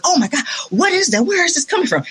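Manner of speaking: high-pitched, quick imitated astonishment; mock amazement. Musician retelling the comedian hearing her horn, amazed impression. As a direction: act out his startled wonder.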